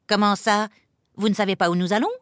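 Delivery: mild hammed-up panic; panicked outcry. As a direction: cry out as a fussy planner caught unprepared. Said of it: "s'écrie Monsieur Lapin affolé".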